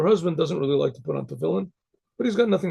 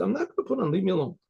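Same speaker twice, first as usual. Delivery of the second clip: mock stubborn refusal; 3 semitones higher, faster than usual. Husband refusing his wife's urging, mildly stubborn. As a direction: lightly voice a balky husband.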